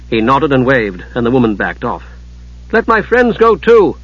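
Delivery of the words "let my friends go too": slow, higher-pitched plea; urging. A narrator's reading. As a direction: press the request, drawing it out. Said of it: "Usha urged".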